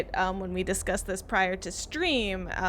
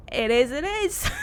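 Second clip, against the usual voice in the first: put-on Cockney accent; 5 semitones higher, 5 dB louder than usual. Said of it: "worst Cockney accent you can".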